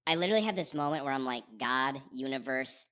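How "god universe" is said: mock prayer. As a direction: lightly plead to the heavens. Desperate prayer in stuck car.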